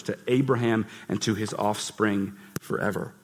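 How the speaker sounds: scripture reading. Acted. Reads Magnificat with passion.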